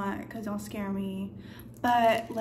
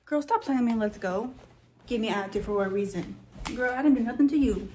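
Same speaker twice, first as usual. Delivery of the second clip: sassy; 4 dB louder, faster than usual. Pretend. Scolding someone playfully.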